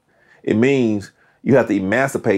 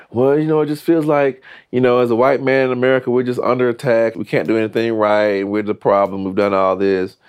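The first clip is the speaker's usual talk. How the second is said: aggrieved white man; 5 semitones higher than usual. Retold or imitated. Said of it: "I've heard similar sentiments".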